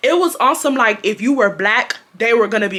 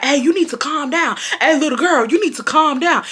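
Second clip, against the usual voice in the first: scolding teacher; 6 semitones higher than usual. Retold or imitated. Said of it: "the teacher will be like".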